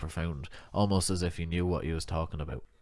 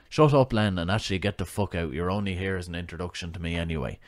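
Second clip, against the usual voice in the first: curt and quick, a sharp snap to start; irritated boss cutting him off; snappy. Acted. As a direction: snap him out of the room, fast. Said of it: "said Bill in a snappy tone".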